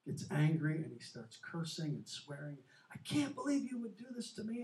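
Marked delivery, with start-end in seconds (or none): 2.9-4.6 retold yelling. Father berating his Christian children, retold mock anger. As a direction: imitate the furious father half-heartedly. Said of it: "he's yelling at the kids".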